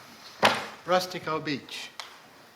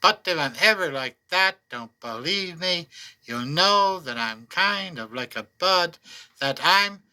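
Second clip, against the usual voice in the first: poem recital. Acted. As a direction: speak it as a private wish. Reads fourth poem.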